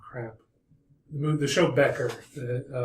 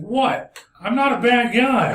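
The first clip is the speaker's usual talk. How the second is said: higher, louder nasal protest; nasally voice; 9 semitones higher, 5 dB louder than usual. Retold or imitated. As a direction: whine it through the nose, offended. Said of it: "Real nasally voice".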